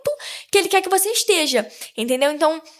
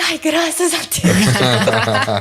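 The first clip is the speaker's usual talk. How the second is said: relieved sigh; 10 semitones lower, much slower than usual. Retold or imitated. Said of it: "Aí eu falei assim".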